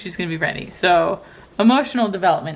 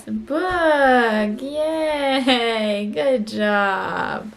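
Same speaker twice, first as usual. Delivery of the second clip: excited praise; 3 semitones higher, much slower than usual. Real, not acted. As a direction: celebrate her success. Celebrating toddler's sign.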